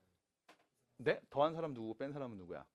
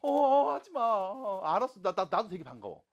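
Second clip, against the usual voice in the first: loud, higher, hurried fluster; flustered teacher; 6 semitones higher, 11 dB louder than usual. Retold or imitated. Teacher retells his flustered reaction to students. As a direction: act caught off guard and embarrassed. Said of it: "막 이런 애들 있다고".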